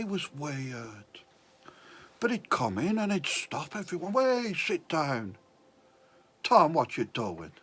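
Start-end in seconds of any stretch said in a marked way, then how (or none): 4.1-7.5 badly faked Welsh teacher, coming out more Irish; attempted Welsh accent. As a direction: tell the kid off in a loud, botched Welsh accent. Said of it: "he had a Welsh accent".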